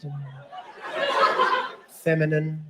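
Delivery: drawn-out, swooning mock longing; mock straight man. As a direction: coo it mockingly, starting high. Mocking what straight men want.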